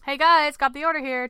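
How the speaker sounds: loud, high, upbeat greeting; enthusiastic. A narrator's reading. Dad back with the ice creams for his family, enthusiastic. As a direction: call out brightly to the group. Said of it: "Terry said enthusiastically".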